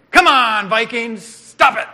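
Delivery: loud shouted jab at the team; mock coach yell. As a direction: heckle the Vikings like a coach. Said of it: "the Vikings need to press on".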